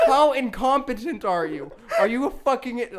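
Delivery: loud, high, mocking fury through laughter; hammed-up angry dad insult; retold dad roast. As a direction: sneer at the kid's stupidity.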